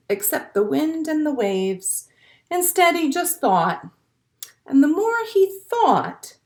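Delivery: gentle storybook read-aloud; picture-book narration for a class; reading to children. A narrator's reading.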